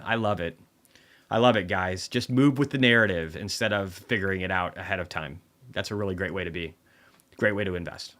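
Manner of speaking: mock approval, starting loud and easing off; sarcastic cheering-on. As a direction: praise them while meaning the opposite. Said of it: "That's sarcasm".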